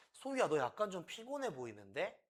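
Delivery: gentle observation. Shown as a demonstration. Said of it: "당신이 이렇게 말할 수 있어요".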